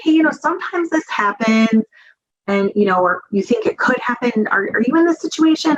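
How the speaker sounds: light, easy, casual asking with a lift; relaxed, unthreatening question; casual, non-threatening. Shown as a demonstration. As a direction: ask it gently, like it's nothing unusual. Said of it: "that more casual, less threatening manner".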